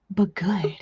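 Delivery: soft unvoiced tag; whisper. Real, not acted. Crafter whispering about the scary but good cane. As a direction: breathe it out quietly.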